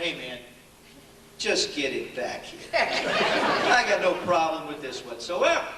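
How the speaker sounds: low, slow and unbothered, a chuckle at the end; laid-back cool. Retold or imitated. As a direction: shrug it off slowly in a low voice. Cool reply to teammates' pressure.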